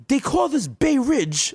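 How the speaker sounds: very high, slow, ominous local; hammed-up drawn-out high voice; old-world villager. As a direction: announce it like a peasant in a fable. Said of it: "They go like".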